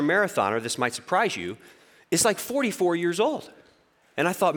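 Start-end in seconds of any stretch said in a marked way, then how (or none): none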